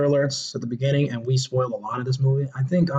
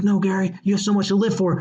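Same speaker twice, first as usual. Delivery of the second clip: mock pleading; 4 semitones higher than usual. Friends pleading with dying man.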